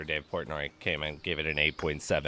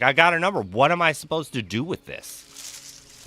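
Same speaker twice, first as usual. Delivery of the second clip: mocking confused lady; 7 semitones higher, 6 dB louder than usual. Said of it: "And she's like".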